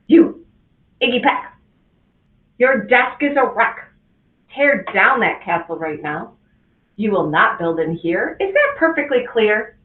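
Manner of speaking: loud, sharp teacher scolding a pupil; a strict teacher who caught him building. Acted. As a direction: bark it at the boy in the back row. Teacher scolds Iggy in class.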